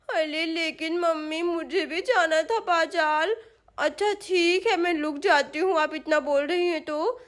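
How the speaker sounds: put-on lightly babyish, resigned child; reluctant little girl. Sonam agrees to stay as mummy asks, reluctant child voice. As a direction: give in like a small, disappointed daughter.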